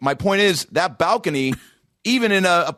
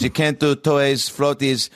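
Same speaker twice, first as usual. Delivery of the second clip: put-on Polish landlady accent. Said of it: "I don't do accents".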